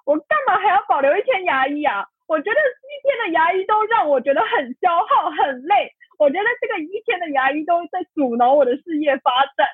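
high, tearful retort, pushing back hard; retold angry outburst. Telling mom she refuses to keep even one dentist day, tearful anger. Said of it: "立马生气".

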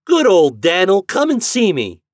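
put-on high, loud, wheedling boy; coaxing call. A narrator's reading. Boy luring his turkey down, coaxing. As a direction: sing out an invitation to a pet. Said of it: "called Homer coaxingly".

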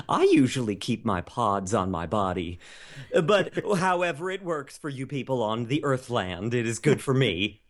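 high alien cartoon voice, broken English. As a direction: play a cheerful alien who mangles English. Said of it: "Welcome to the show, O".

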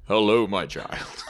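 slow, grand voice from above; booming voice. Pretend. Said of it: "You just hear a booming voice".

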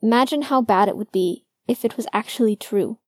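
bitter outburst. A narrator's reading. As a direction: let it spew out of you. Logan spewing fears at Finn.

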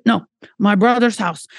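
fast, lightly put-on Portuguese accent; quick half-hearted Portuguese accent, insisting kindly; rough Portuguese accent. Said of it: "this is not gonna be a good accent".

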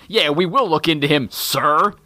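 mock yes man, lightly voiced; hint of an eager-to-obey underling. Imitating a yes man answering his boss, obedient. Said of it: "like some yes man".

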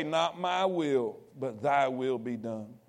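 soft, low, slow surrender; hushed prayer. Acted. Believer surrendering to God, hushed and low. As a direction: pray it softly, giving up.

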